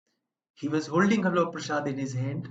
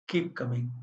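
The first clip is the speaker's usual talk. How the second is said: mild, kindly retold encouragement; very gentle; 3 semitones lower than usual. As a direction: say it gently, a little low and subdued. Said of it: "very gently says".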